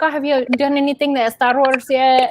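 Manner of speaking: lightly imitating a Mexican Spanish accent; a hint of dad's Mexican accent, asking. Imitating her dad's Mexican accent, asking about Star Wars. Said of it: "you know, in his accent".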